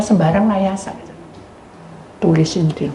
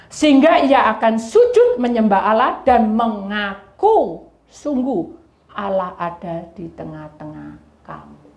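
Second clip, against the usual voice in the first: normal talking voice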